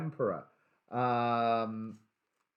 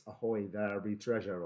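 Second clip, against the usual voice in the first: pirate voice; 3 semitones lower, 3 dB quieter than usual. Pretend. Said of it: "should I do that in a pirate voice?".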